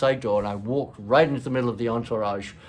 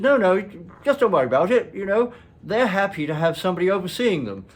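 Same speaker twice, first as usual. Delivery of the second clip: father's firm reassurance; 8 semitones higher, 6 dB louder than usual. Retold or imitated. Father firmly advising child, retold.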